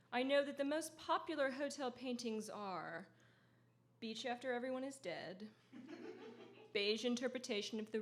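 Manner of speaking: measured literary reading voice; author's deadpan public reading; reading aloud. Acted. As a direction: read it out to the audience with dry wit. Reads her book aloud.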